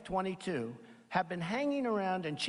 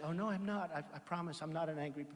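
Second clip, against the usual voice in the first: softer, quick, mock apologetic denial; mock meek denial; 3 semitones lower, 6 dB quieter, faster than usual. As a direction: play the meek candidate pleading he isn't angry, hurried and soft. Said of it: "And I was supposed to say".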